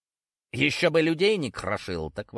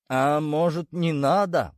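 mild pleading; 4 semitones higher, 4 dB louder, slower than usual. A narrator's reading. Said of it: "взмолился здоровенный бычок".

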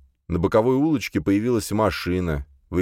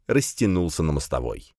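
plain reading voice

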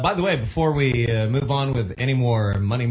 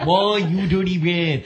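hammed-up cartoon gangster drawl, slow; cartoon mobster; 3 semitones higher than usual. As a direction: growl it like a Looney Tunes mobster. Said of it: "It just sounds like a cartoon".

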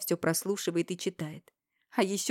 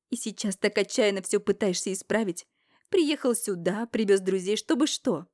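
higher, louder accusing shout; furious accusation; 4 semitones higher, 5 dB louder than usual. Acted. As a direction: jab the blame at him. Героиня обличает брата. (яростное обвинение, выше и громче)

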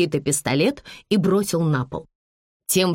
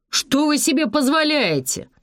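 hoarse exclamation; 8 semitones higher than usual. Acted. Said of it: "Зубов хрипло воскликнул".

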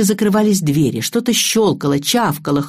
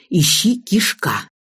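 slow, laboured words; speaking with difficulty; slower than usual. A narrator's reading. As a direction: get it out with some effort. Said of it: "с трудом вымолвила я". (медленно, с трудом)

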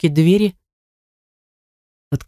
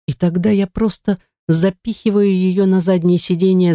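plain reading voice

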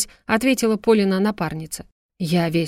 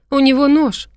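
loud, high warning scream; terrified shout; 7 semitones higher, 7 dB louder than usual. A narrator's reading. Polya screams a warning to the medic, terrified. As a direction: warn him before it's too late. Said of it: "испуганно закричала Поля".

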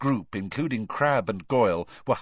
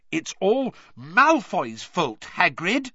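earnest; 11 semitones higher, 6 dB louder, slower than usual. A narrator's reading. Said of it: "said Hermione earnestly".

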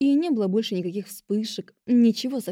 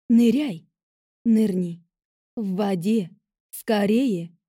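настойчивый зов; 4 dB louder, slower than usual. A narrator's reading. Таинственный голос торопит.

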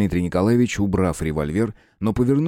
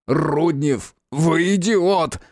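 higher, very slow furious yell; angry yell; 6 semitones higher, much slower than usual. A narrator's reading. Deafened detective yelling at Rudnev, furious. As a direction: yell it, half deaf from the blast. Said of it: "проорал почти совсем оглохший".

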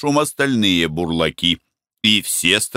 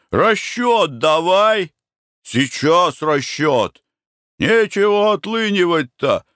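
crowd yelling; 7 semitones higher than usual. A narrator's reading. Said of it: "Клики громче и громче". (рабочие всё громче требуют расчёта)

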